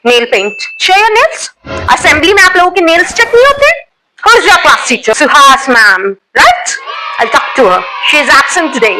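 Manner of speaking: lightly voiced strict schoolteacher, scolding the class; a teacher catching girls with nail paint, scolding; stern teacher scolding. Strict teacher checking student bags.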